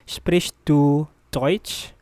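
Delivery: very slow question, word by word; slow teaching model, rising at the end; slow repeat. Shown as a demonstration. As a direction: stretch it out for a learner. Teacher repeats slowly for learners.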